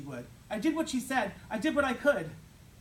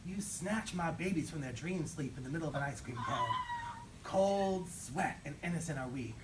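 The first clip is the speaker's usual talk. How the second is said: mock poetry. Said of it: "something real elegant like, one of them there poets".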